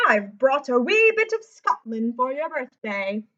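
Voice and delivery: a hint of a loud Scottish uncle; hearty uncle. A narrator's reading. Uncle handing over a birthday gift, lightly voiced and loud. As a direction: boom it out like a proud uncle. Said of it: "Lewis's Uncle McAllister".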